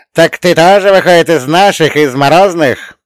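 high, loud, delighted question; joyful yell. A narrator's reading. Old spirit discovering a fellow frost mage, joyful yell. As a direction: cry out in happy surprise at full voice. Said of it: "обрадованно завопил Ломонос".

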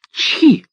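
a sudden high, loud sneeze. A narrator's reading. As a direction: sneeze it out sharply from above. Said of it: "Чихнуло что-то так".

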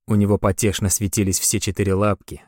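usual speaking voice

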